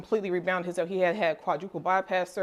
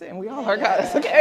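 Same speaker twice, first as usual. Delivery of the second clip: excited; 3 semitones higher, 7 dB louder than usual. Real, not acted. Proclaiming everyone a goddess.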